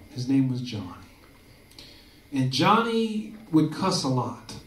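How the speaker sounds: measured mock children's storyteller, pausing between phrases; storybook reading. Comic telling a touching story to the audience, storybook reading. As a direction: read it out like a children's story, unhurried. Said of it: "reading Rainbow style".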